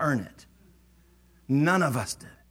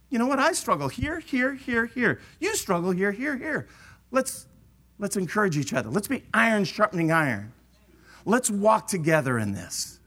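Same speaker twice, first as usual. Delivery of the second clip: higher, earnest, humble plea; humble encouragement; 4 semitones higher than usual. Retold or imitated. Believer admitting struggles to a brother, humble and earnest. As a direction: confess it openly, as an equal. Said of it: "in truth and humility and say".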